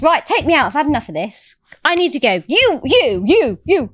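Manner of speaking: imitated imperious demand; mock bossy orders. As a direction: play a woman who has had enough. Acts out banker ordering people about.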